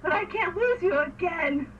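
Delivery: hammed-up romantic pleading; mock plea. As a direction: act out a lovelorn plea. Acted plea from the show.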